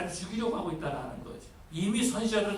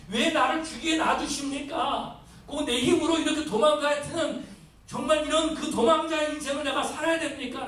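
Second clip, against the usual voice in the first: raised, pleading lament, voice lifted higher; plaintive complaint to God; 4 semitones higher than usual. Retold or imitated. Elijah complaining to God about his fate, pleading lament. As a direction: cry out to God in anguish as Elijah. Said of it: "라고 하면서 얼마나 마음이 괴로웠겠습니까".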